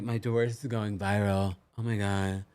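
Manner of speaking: mock-fretting Valley girl, oh my God on loop; a hint of Valley girl glued to her phone; Valley girl impression. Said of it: "Rachel does talk like a College Valley girl".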